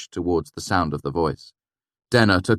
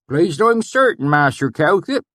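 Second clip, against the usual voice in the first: put-on valley accent; 12 semitones higher, 7 dB louder than usual. A narrator's reading. Swineherd greeting the narrator, pleased, thick valley accent.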